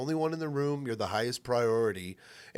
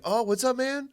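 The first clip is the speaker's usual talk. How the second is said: higher, loud, breezy friendly phone voice; mimicking friend's phone voice; 7 semitones higher, 3 dB louder than usual. Friend imitating host's upbeat phone brush-off, higher and loud. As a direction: brush him off kindly, upbeat. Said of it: "'cause you were like".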